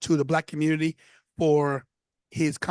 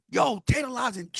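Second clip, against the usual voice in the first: calling over; 5 semitones higher than usual. Retold or imitated. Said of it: "he calls me over".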